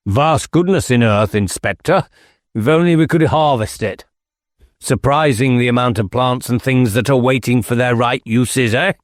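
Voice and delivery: lightly voiced squire, airy and knowing; a hint of a cryptic old squire; musing squire. Squire muses to inspector.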